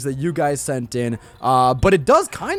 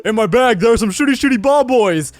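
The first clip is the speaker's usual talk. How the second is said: mock announcing shout; 7 semitones higher, 7 dB louder than usual. Reading edited NPC line.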